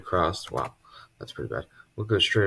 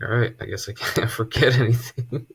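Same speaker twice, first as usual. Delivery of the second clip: laughing; 4 semitones higher, 3 dB louder than usual. Retold or imitated. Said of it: "was like".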